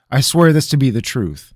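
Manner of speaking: high, loud sworn promise; solemn oath. Acted. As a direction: swear it earnestly. Rabineau swearing.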